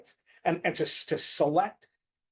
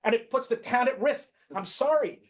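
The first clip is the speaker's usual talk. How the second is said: raised, insistent pitch, pressing the point; getting loud; 3 semitones higher than usual. Real, not acted. Board meeting speaker insisting on the law, getting loud. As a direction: argue it out loudly in a heated meeting. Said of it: "It's getting really loud".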